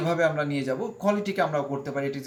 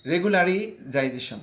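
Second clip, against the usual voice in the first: রেগুলারাইজেশন said slowly, every syllable clear; careful classroom repetition; slow repeat; 2 semitones higher, slower than usual. Shown as a demonstration. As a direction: model রেগুলারাইজেশন slowly once more. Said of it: "আমরা আরেকবার বলি".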